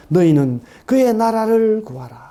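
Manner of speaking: slow, solemn verse; scripture reading. Real, not acted. Preacher slowly reciting the verse to the congregation. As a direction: lay each word down slowly.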